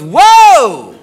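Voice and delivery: loud, drawn-out whoa, rising high then dropping; mock alarm, stretched out; startled whoa. Girlfriend stopping him putting on new underwear, mock startled.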